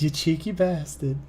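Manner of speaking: playful British scolding; British accent. Acted. Showing off the praised voice to a friend, British accent. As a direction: do the cheeky British voice. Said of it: "your British voice is great".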